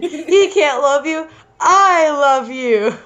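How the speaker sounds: drawn-out melodramatic love protest; slow, stretched, hammed-up declaration; mock cry. Reader as curly band member declaring love, mock cry. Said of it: "cried the curly one".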